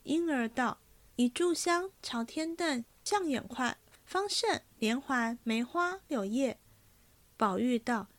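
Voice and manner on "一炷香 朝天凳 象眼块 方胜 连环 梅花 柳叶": put-on a slightly higher, girlish maid's voice, chatty; lightly voiced young maid. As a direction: read the young maid a touch higher and brighter. Ying'er lists knot patterns.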